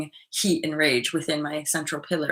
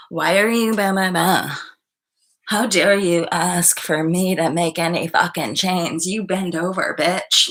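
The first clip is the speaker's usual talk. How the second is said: louder, contemptuous mock rant; mock abuser; 4 dB louder than usual. Imitating an abusive partner scolding her, louder mock rant. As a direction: sneer it as the bully would.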